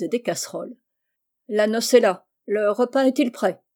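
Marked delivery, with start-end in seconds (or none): 1.5-3.6 brusque. Acted. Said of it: "dit-il brusquement".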